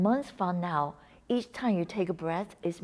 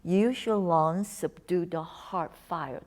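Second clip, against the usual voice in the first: slow poetic repeat; slower than usual. Shown as a demonstration. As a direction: linger on it like a line of poetry. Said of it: "Such a beautiful, like, poetry".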